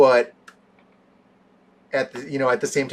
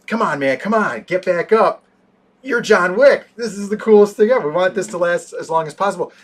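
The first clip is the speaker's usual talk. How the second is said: higher, louder, excited mock thugs; gleeful urging; 6 semitones higher, 6 dB louder than usual. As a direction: beg him to get up, thrilled. Fighters urging John Wick up.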